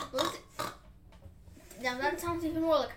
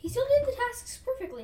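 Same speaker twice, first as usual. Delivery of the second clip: indignant protest; 8 semitones higher, 6 dB louder than usual. Real, not acted. Indignant protest about unfair ruling.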